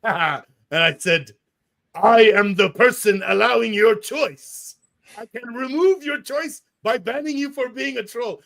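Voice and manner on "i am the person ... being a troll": mock-imperious pronouncement from on high; grand imperious voice. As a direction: lay down the law like the god of the platform. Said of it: "I don't know why I'm making that voice".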